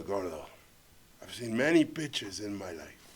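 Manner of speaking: low, soft, measured pronouncement; grave verdict. Retold or imitated. Producer judging the failed pitch in private, quiet and grave. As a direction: deliver bad news slowly, nearly whispering at the end.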